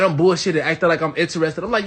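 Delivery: usual speaking voice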